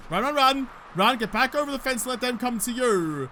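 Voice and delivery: urgent self-talk while running; hurried, breathless urging; being chased. Real, not acted. Zombies coming, retreating over fence.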